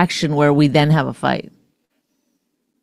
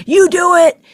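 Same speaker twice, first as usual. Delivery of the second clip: hammed-up whiny partner throwing it back; higher mock accusation of a partner; 9 semitones higher than usual. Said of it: "and then you go".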